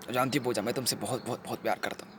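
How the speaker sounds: very soft, intimate voice; tender declaration. Acted. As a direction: declare love in a hushed, tender voice. Tender confession of love.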